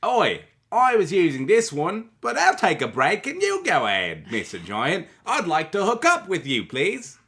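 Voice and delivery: chirpy little street urchin; orphan child voice. Retold or imitated. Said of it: "Why did you have to use the orphan child, uh, voice?".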